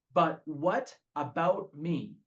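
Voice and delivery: slow, drawn-out "But what about me?" with "But" leaned on; slow self-pitying whine; whiny battle cry. Retold or imitated. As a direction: drag it out like a sulking child. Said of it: "the battle cry of this alcoholic".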